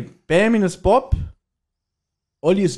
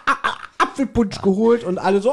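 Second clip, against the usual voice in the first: mock flustered squeals, higher; hammed-up high excited voice; 9 semitones higher than usual. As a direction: play it over the top, juggling hot mugs. Acting out Peter with hot punch.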